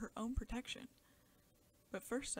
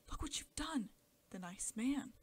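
scolding mother; 4 semitones higher, 6 dB louder than usual. A narrator's reading. Mother scolding her child.

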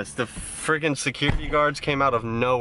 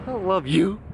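mock high voice; 6 semitones higher than usual. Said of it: "And I was like".

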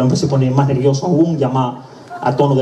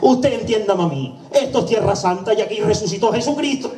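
respuesta del hombre; 5 semitones higher than usual. Acted. Hombre responde al funerario.

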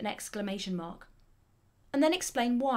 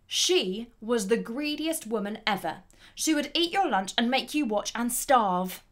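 disgracefully amused disbelief, getting louder; frustrated exclamation; 5 dB louder than usual. Acted. Writer describing a greedy woman, frustrated and amused. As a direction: exclaim at someone's outrageous greed. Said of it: "shows the frustration of the writer".

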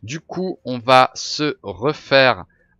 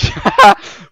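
sudden loud laugh; real laugh; burst of high laughter; 9 dB louder than usual. Real, not acted.

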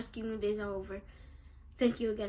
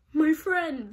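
voicing Garrett; 5 semitones higher, 10 dB louder than usual. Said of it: "That's not his voice".

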